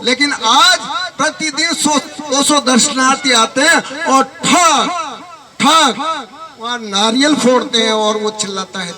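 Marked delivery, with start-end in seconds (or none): 4.4-4.9 knocking sound. Retold or imitated. Imitates coconut striking the stone. 5.6-6.3 knocking sound. Retold or imitated. Imitates coconut striking the stone.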